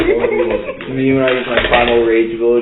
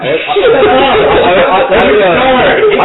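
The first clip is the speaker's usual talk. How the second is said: laughing stutter; 10 semitones higher, 4 dB louder, much slower than usual. Real, not acted.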